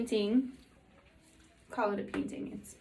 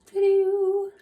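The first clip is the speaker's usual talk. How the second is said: ta-da reveal; 10 semitones higher, 10 dB louder than usual. Real, not acted. Reveals the finished painting.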